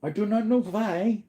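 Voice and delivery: high, yawning, rising. Real, not acted. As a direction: say it mid-yawn. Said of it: "why am I yawning".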